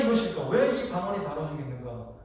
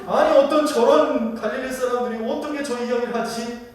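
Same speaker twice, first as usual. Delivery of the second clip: higher-pitched mock scornful wonder; disdainful disbelief; 4 semitones higher than usual. Crowd wonders how such Galileans can speak, mock disdainful. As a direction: act out belittling the Galileans. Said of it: "깔보는 거죠. 무시하는 거죠".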